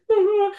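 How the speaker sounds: high mock boo-hoo; short, high self-mocking sob; imitated crying. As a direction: act out bursting into tears, lightly. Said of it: "I'm not a crier".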